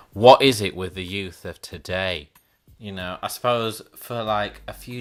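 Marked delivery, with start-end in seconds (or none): 0.1-2.3 louder, exasperated mock rant; mock exasperation. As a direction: belt it out in fake despair. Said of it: "But no, seriously".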